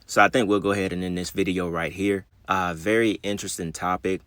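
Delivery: slurred speech after the dentist; slurring. Real, not acted. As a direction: numb mouth slurring words. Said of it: "If I sound like I'm slurring, I just came from the dentist".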